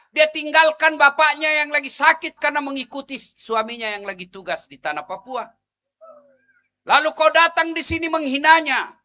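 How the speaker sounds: lebih tinggi dan keras, mendesak; ceramah berapi-api. Acted. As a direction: mengecam dengan semangat penuh. Menegur bapak-bapak dengan keras. (ustaz menegur ibu-ibu dengan ceramah berapi-api)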